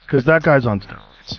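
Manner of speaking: whispered aside; whispering. Real, not acted. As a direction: lean in and whisper it. Aside about steroid use.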